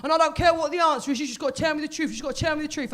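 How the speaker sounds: lightly voiced earnest, anxious dad; confused dad impression. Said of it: "rang me up very confused".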